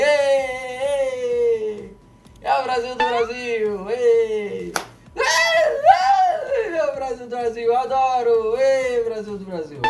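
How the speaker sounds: ecstatic cheer. Real, not acted. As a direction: scream the catchphrase with joy. Screaming catchphrase with emotion. (grito emocionado e agudo)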